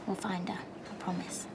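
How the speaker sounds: whispering. Acted. Quiet reassurance.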